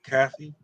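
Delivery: "Coffee" as "caffee", rising; tentative, questioning "caffee" for "Coffee"; alternative pronunciation. Shown as a demonstration. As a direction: try "Coffee" with the vowel of "cat". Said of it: "I don't know the way to say it".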